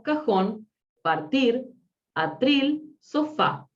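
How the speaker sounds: "cajón, partir, atril, sofá", each stressed on its last syllable; final-syllable stress. Shown as a demonstration. Teacher showing students final-stressed words, "cajón, partir, atril, sofá" stressed at the end. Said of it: "acentúan en la última sílaba".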